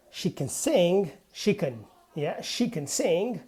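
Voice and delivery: "can" light and reduced before "sing"; unstressed can. Shown as a demonstration. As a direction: let "sing" carry the stress, not "can". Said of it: "can is not stressed".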